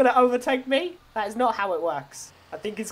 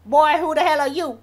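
higher, louder mock echo of the pilot; mimicking the pilot; 5 semitones higher, 6 dB louder than usual. Tow driver parrots the pilot's challenge back at him, mimicking. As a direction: parrot his line back, pitched up and loud.

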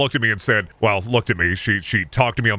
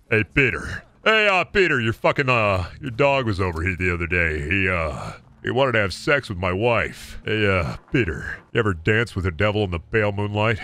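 lightly voiced, low hesitant neighbor; a drawling hint of a character; 4 semitones lower than usual. Neighbor complaining to Peter about his dog, in a low hesitant voice. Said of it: "But I can do it".

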